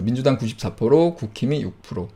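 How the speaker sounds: ordinary talk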